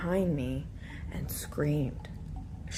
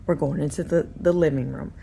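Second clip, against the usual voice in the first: nervous laughing retreat; 7 dB louder than usual. Retold or imitated. Panicked retreat from room.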